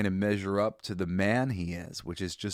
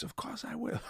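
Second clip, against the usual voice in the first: retold scream; 8 dB quieter than usual. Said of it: "And he screams".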